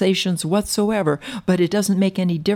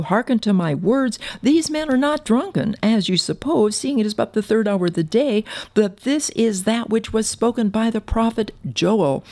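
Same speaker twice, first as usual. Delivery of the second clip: put-on mildly raised preacher's proclamation, higher on "These men are not drunken"; 3 semitones higher than usual. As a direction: proclaim it to a crowd, lifting the pitch a little. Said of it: "he lifted up his voice".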